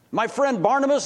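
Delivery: amazed. Acted. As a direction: lift it in disbelief. Zacchaeus stunned by the news.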